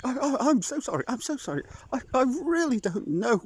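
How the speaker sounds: high, fast stammering apology; a scared fox babbling sorry; high nervous stammer; frightened fox. Acted.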